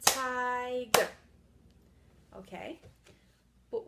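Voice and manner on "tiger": Ti-ger said very loud in two clapped beats; loud, beat-by-beat syllable clapping. Shown as a demonstration. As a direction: hammer out each syllable of Tiger. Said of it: "Let's try it again".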